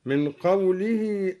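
ordinary delivery

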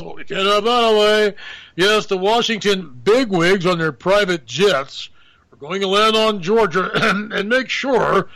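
lightly voiced smug bigwig; mock elite. Host mocks Washington insiders plotting, smug put-on voice.

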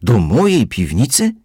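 scandalised, the key to MY cellar?; outraged shout. A narrator's reading. Housekeeper shouts at Kozłowski, high and outraged. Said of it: "wrzasnęła gospodyni".

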